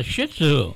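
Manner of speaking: "Shih Tzu" with a short i, like shit-sue; mispronounced dog breed. Retold or imitated. Co-host retells a caller, "Shih Tzu" said shit-sue. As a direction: say "Shih" with the vowel of hit. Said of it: "trying to pronounce that dog's name".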